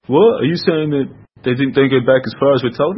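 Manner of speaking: mildly mock a startled objection; incredulous doubter.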